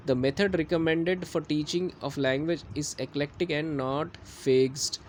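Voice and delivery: slow, deliberate syllabus read-out; slow dictation reading. Acted. Teacher to class, dictating syllabus objectives slowly. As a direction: read the official text slowly, word by word. Reads syllabus text aloud.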